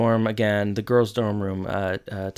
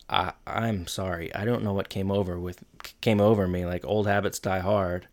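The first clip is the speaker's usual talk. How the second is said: retold apology; 4 semitones lower, 6 dB quieter than usual.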